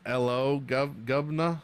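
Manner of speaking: mock British accent, lightly done. Streamer replying to chat's joke, mock British accent. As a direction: try out a jokey British greeting. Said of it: "with a British accent".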